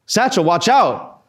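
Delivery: urgent, high-pitched, drawn-out yell; Chris's warning yell. Retold or imitated. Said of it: "I heard Chris's voice yell".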